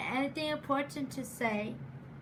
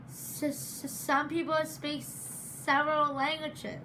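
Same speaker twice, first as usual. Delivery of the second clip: stuttering. Real, not acted. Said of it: "but I stutter".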